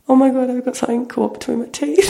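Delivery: high, squeaky retold horror, laughing; stifled laughter. Telling friend about biting his finger, stifling laughter. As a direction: squeeze it out high through a laugh.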